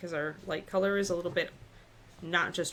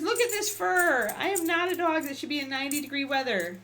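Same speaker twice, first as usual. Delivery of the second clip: higher, put-on pouty dog voice; voicing the dog; 9 semitones higher, 5 dB louder than usual. Owner voicing her fluffy dog complaining about the heat, higher pout. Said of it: "She says".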